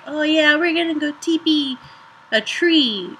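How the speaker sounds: a hint of an eager kid planning a prank; kid version. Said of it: "like, the kid version".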